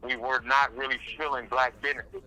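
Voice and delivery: speaking through a face mask; muffled voice behind a mask. Real, not acted. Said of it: "sorry if I sound muffled too".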